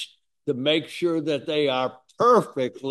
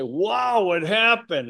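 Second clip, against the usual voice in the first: higher, louder mock surprise; excited wow; 6 semitones higher, 5 dB louder, slower than usual. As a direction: act out a pleased quick wow. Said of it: "and we say".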